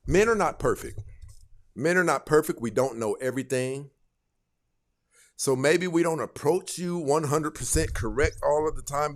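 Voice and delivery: usual speaking voice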